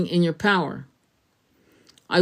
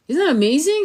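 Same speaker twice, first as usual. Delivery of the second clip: louder, higher amazed question; excited; 8 semitones higher, 5 dB louder, faster than usual. Retold or imitated. Telling mom about the angels, louder and amazed. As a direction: share the wonder eagerly. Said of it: "I go".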